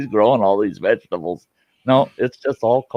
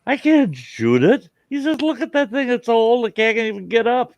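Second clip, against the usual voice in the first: a hint of a high old codger; imitating old man; 14 semitones higher than usual. Old man retelling movie quote.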